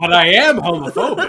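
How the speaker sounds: laughing through the words. Real, not acted. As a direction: blurt it out while cracking up. Joking line, bursting into laughter.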